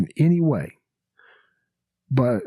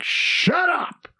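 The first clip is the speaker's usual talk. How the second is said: much higher, hammed-up Cosby bark; Cosby shut up. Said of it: "he just, like".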